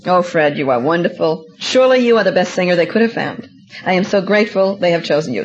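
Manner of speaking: sweet dutiful wife. Retold or imitated. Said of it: "good, dutiful Christian wife would have said".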